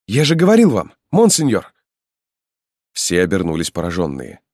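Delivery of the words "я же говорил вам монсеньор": put-on high, bright-eyed young man bursting in loud; young lively voice. Young Halmalo calls to the marquis, high and loud. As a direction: call out cheerfully, a young rescuer arriving just in time. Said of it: "раздался молодой бодрый голос".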